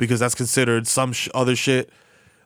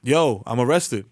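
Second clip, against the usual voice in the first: slow mock text; slower than usual. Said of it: "To say what?".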